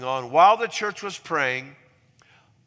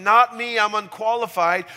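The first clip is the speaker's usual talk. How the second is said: raised, louder voice of someone protesting; voicing self-doubt; 6 semitones higher, 6 dB louder than usual. Preacher voicing the congregation's doubting assumption, emphatic protest. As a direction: play the doubter counting themselves out, emphatically. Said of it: "So the assumption".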